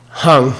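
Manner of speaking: spell-out then model Hang crisply; clear demo of Hang. Shown as a demonstration. Teacher modelling Hang for students, clear and deliberate. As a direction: Hang said as HAHNG with an open ah. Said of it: "H A N G".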